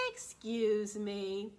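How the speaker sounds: slow, polite excuse me; polite dinosaur. Pretend. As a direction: say it slowly and politely. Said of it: "I even say".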